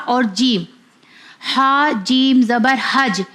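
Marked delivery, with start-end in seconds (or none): 1.6-3.2 slow spelling, حج with a rebounding j; حج ending in an echoed j sound; qalqalah on حج. Shown as a demonstration. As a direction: bounce the final j of حج. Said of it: "جیم بھی ہمارا کلکلا والا حرف ہے".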